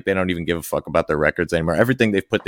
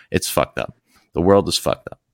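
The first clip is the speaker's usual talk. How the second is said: winded after a long rant; out of breath, pushing the words out. Real, not acted. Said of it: "I'm out of, I'm out of breath".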